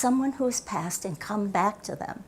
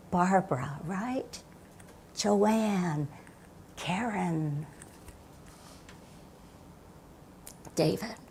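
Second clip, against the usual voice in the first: soft inner voice; 9 dB quieter, slower than usual. Shown as a demonstration. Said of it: "your own internal voice that says to you".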